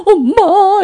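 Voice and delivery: put-on high, loud child's call. Daughter looking for her mother at night, calling out. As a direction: cry out for mom like a little girl.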